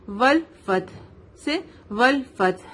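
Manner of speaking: والفتح ending on a vowelless breath h; stopped ha sakin. Shown as a demonstration. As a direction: stop on the ح of والفتح. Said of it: "ہا ساکن میں بدل جائے گا". (والفتح کے آخر میں ساکن ہا)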